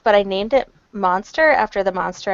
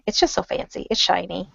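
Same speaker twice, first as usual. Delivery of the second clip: soft unvoiced gushing; whispered gushing; 6 dB quieter than usual. Real, not acted. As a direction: whisper it lovingly. Gushing over new laptop.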